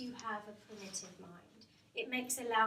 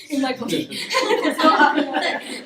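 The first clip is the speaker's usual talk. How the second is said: laughing through the words; real laugh breaking into the line; 4 semitones higher, 17 dB louder than usual. Real, not acted. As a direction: giggle it out, caught on her own slip. Laughs at her own slip.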